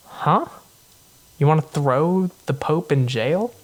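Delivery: mock-gasp at the outrageous order; stunned crowd. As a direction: bystanders aghast at jailing the old pope. Crowd stunned by jail decree.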